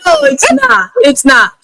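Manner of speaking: high, excited no; laughing denial. Real, not acted. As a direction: jump up high in mock protest.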